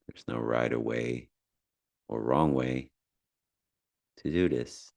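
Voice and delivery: unhurried meditation guide with long pauses; measured, calm instruction with space between phrases; guided meditation. Acted. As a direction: ease the listener into calm breathing.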